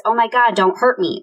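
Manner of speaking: toned-down imitation of a high screech; high-pitched plea. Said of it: "screeches out in this high-pitched voice".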